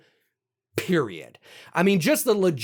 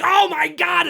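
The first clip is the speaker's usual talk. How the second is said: excited gasp; 10 semitones higher than usual. Retold or imitated. Reacting to a scare.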